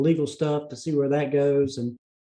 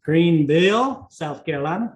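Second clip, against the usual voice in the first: Southern accent. Shown as a demonstration. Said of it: "Like how I said that with a, a Southern accent".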